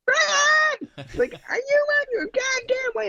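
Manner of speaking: very high, screeched mom's holler; piercing yell. Acted. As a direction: scold so the whole neighborhood hears. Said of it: "you'd hear the most piercing".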